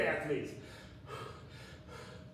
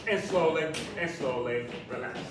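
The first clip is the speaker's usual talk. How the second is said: calm cooldown; 4 semitones lower than usual. Acted. Cooldown cue.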